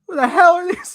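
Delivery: high, loud, laughing outburst; annoyed Otto. Retold or imitated. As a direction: blurt it out like a grumpy villain. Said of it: "Otto's like".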